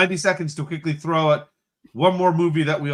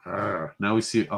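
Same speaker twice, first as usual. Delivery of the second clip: low, hushed wildlife narrator, lightly done; David Attenborough; 8 semitones lower, 6 dB quieter, slower than usual. Acted. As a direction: play at narrating a nature documentary. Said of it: "This feels like David Attenborough".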